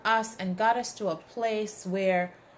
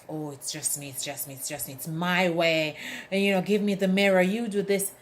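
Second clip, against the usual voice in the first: mock narcissist; 2 semitones lower than usual. Mocking a narcissist.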